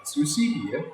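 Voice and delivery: put-on lively storybook read-aloud for kids; reading to children. A narrator's reading. Teacher reading a picture book to children, lively and clear. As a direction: read it like story time with little ones.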